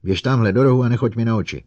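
loud, high, fast shriek; shrieking at robot. Acted. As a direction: scream him away. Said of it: "vřískla na robota".

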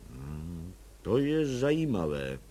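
low, muttered grumble, mostly to himself; grumbling. A narrator's reading. Commissioner Bartošek mulling over the case, grumbling low. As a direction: grumble it over while thinking. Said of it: "bručel pan Bartošek".

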